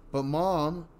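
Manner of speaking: put-on high, pleading child; little girl. A narrator's reading. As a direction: call Mom like a small child. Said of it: "the girl said".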